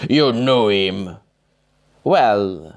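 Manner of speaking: slow voice, wrong character. Acted. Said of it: "sorry, wrong voice".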